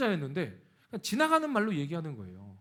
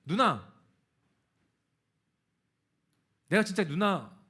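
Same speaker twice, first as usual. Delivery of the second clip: louder, charged call to her; tense address; 6 dB louder, slower than usual. Retold or imitated. Preacher reenacts facing his sister, loud and tense. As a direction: brace and blurt it out.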